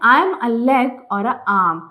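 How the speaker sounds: very slow, careful riddle read-aloud. Acted. Teacher reading a riddle to her class, very slow. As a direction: draw the riddle out slowly for the class.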